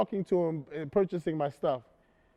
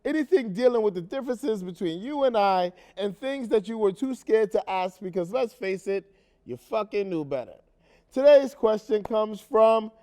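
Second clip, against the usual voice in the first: lively, slightly raised host announcement; talk show host intro; 3 semitones higher than usual. Acted. Host welcomes audience to a talk show about race, show intro delivery.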